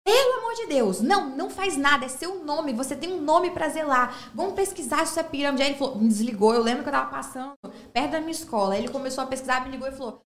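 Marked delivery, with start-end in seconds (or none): 0.1-5.6 alarmed warning. Retold or imitated. Accountant warns her by phone about a scheme, retold alarmed plea. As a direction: imitate someone urgently talking a friend out of it.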